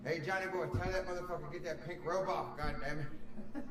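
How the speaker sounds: a hint of a Southern hillbilly accent; mock hillbilly. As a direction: holler like a country neighbour. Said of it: "my hillbilly brain".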